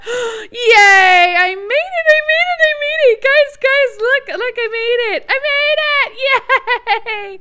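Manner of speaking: shrieking high and loud: I made it; triumphant cheering. Real, not acted. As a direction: cheer like you just won.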